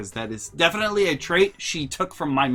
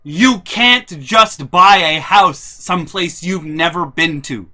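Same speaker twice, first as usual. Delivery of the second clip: mom's scolding; 3 semitones higher, 10 dB louder, slower than usual. Retold or imitated. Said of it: "she meant in a".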